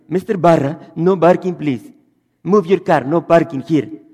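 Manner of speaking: put-on loud Arab-accented English with b for p; Arab accent, mostly loud. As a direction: call out like an Arab parking attendant. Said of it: "No pueden pronunciarla".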